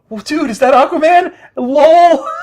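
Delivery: mocking laugh through the words; jeering, high and loud. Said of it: "they just laugh at him".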